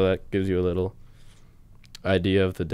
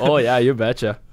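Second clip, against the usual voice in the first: put-on Canadian accent; 3 semitones higher, 5 dB louder than usual. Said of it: "Canadian accent".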